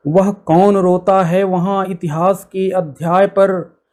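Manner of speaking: measured, solemn verse recitation; poem recitation. Acted. Host reciting Dinkar's epic Kurukshetra to listeners, solemn recitation.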